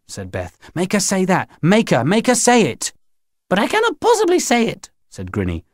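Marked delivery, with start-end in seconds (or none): 0.8-2.9 urgent, higher-pitched demand; insistent child's urging. Acted. Beth urges narrator to force her. 3.5-4.9 very high, passionate protest; impassioned high-pitched wail of refusal; loud and passionate. Acted. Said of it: "Her voice was loud and passionate".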